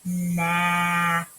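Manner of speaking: stretched nap; blended nap. Shown as a demonstration. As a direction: blend it slowly. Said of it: "Can you guys do that".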